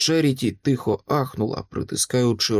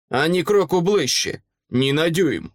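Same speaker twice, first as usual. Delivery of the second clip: higher-pitched command to halt; sharp warning; 5 semitones higher than usual. Acted. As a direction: warn him off firmly. Monster warns knight off. (різке застереження)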